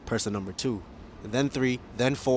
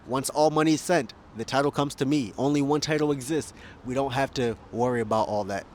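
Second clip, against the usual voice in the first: excited; 4 semitones higher, 5 dB louder than usual. Real, not acted. Emphatic pitch for smart contracts.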